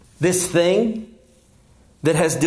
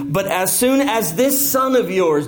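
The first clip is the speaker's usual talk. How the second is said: sarcastic; 3 semitones higher than usual. Retold or imitated. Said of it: "do you see the sarcasm there?".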